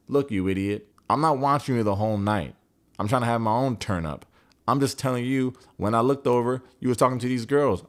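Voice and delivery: acted exasperated telling-off; mock angry rant. She tells him what she saw, acted annoyance. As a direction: push each point, retelling an argument.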